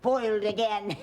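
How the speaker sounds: high hammed-up villain curse; foiled villain. Grandma as the witch after losing, hammed-up curse. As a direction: ham up the villain's defeat. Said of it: "And the wicked witch said".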